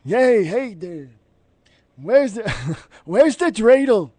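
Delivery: put-on old Jewish man voice. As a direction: play a fussy old man looking around. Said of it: "so is the voice of that dude".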